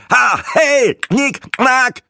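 high, punchy staccato mock clicks; mocking click noises. Breitling fires mock click sounds into the room, high and punchy. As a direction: spit the syllables out like strobe flashes.

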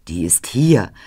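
whisper. Acted. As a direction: hiss the threat under the breath. Threat of the rod to children.

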